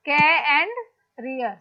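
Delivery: "के" and "रियर" said as separate parts; teacher dividing "के" from "रियर"; split into syllables. Shown as a demonstration. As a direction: break the word after "के", pause, then "रियर". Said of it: "how many syllables are there".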